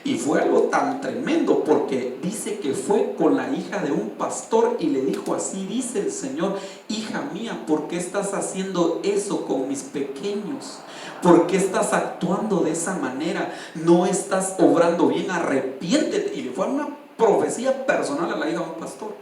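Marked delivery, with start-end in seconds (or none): 5.3-16.3 retold prophecy. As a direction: relay a divine admonition, slowing toward the end. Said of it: "empieza a gritar y a profetizar". (profecía relatada, con leve tono de reprensión)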